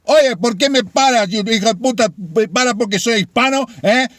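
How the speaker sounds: hammed-up thick Hispanic accent, indignant at the cop; mock thick Hispanic accent. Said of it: "making fun of a thick Hispanic accent".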